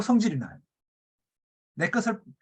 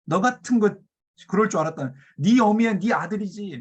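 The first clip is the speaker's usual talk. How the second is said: contemptuous insult; 3 semitones higher, 4 dB louder than usual. Retold or imitated. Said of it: "심한 욕을 하고 있습니다".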